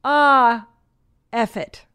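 long loud high "Ah", then drop; exasperated little-kid outburst, imitated; toddler cursing. Son curses out of nowhere at the cheeses, mock exasperation.

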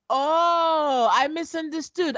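real giggles breaking through; laughing in disbelief. Real, not acted. Podcaster laughing in disbelief at Michaela's reversal. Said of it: "Oh my God. This is so scary".

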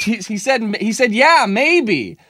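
high mock relay voice; relaying stranger. Stranger relaying husband's answer to wife, high mock voice. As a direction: pass it on, slightly weary. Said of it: "the stranger in the middle goes".

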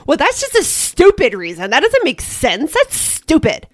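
mother imitating her tween's snotty retort; mock bratty tween. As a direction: play the eye-rolling daughter, rising to stupid. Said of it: "the answer would come back as".

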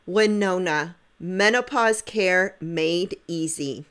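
upbeat sponsor ad read. Acted. Host reading the sponsor spot to listeners, upbeat ad voice. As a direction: sell it like a podcast ad.

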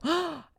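high, dramatic intake of breath; acted shocked gasp; sharp gasp. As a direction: gasp in sudden alarm. Reenacting her reaction.

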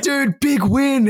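high, drawn-out celebratory greeting; slow, high-pitched mock cheer; excited retelling. Acting out excited greeting at festival.

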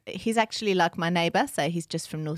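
put-on South African accent; lively imitation South African accent. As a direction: chat away as a South African. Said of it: "Can you do South African?".

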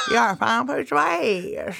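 mumbled through gums, laughing at the edges; toothless uncle. Retold or imitated. Toothless uncle repeating his catchphrase, gummy mumble. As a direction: gum the words like a grandpa without dentures.

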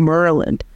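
"Maryland" said "Murland", vowel pulled to the middle; DC pronunciation. Shown as a demonstration. Linguist showing how locals say Maryland. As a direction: centralize the vowel in "Maryland" before the R. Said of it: "something like Mary, in this area becomes Murray".

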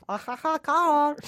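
high, slow giggling Minion. Pretend. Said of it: "You're doing the Minions".

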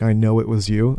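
low, quiet Godfather line; a hint of Michael Corleone; Godfather impression. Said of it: "kisses Fredo and he's like".

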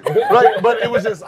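loud laughing outburst; laughing loudly. Real, not acted. He laughs hard retelling the coach's answer. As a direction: burst out laughing.

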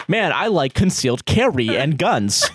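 mock American accent. British friends' payback, spoken in a mock American accent. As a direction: imitate a stereotypical American gun lover's accent. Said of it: "they'll do an American accent".

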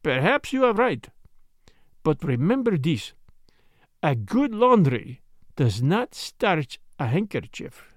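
put-on detective voice, deliberate, slowing at the end; concede, then drive the clue home slowly; Poirot making his point. Detective correcting the doctor on the clue, deliberate character voice.

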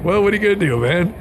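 mock high-pitched bystander voice; voiced onlooker. Host voicing a man in the video, mock onlooker. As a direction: act out a helpless onlooker, high. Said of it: "Look at him like".

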